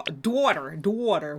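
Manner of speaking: "daughter" with an odd, drawn-out first vowel, like "dwaughter"; odd pronunciation. Real, not acted. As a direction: say "daughter" oddly, as DWAW-ter. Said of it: "Why did I say it like that?".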